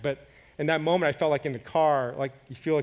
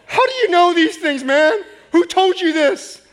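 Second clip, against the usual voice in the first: higher, louder amazed question; amazed exclamation; 14 semitones higher, 10 dB louder, slower than usual. Retold or imitated. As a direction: burst out in disbelief. Driver amazed, retold.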